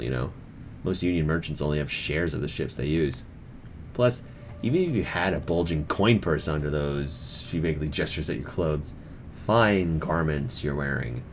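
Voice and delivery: smirking harbor master. Acted. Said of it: "She smirks".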